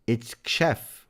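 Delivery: Xhef begun with ksh, stressed. Shown as a demonstration. Streamer works out the name, Xhef said with ksh. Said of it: "It's not Jeff".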